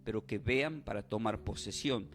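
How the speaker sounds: oración en tono bajo y pausado del predicador. Real, not acted. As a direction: ora por los fieles con voz más grave. (plegaria contenida, en tono grave)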